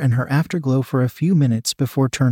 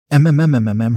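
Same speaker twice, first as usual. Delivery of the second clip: narrated character's voiced moan; low moan; 4 dB louder, faster than usual. A narrator's reading. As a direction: hum out a moan with closed lips. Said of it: "her low moan reverberated".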